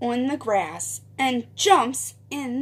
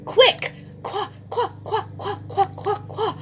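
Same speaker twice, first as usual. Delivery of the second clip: rapid-fire high chirps; brisk running-on-the-spot chant; quick; 8 semitones higher, faster than usual. Shown as a demonstration. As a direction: punch out short, high, quick syllables. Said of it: "we're gonna run quick".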